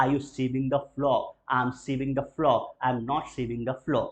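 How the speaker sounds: slow, clear, word by word; slow model answer. Shown as a demonstration. Teacher models the answer for students to repeat, slow. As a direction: drill it slowly.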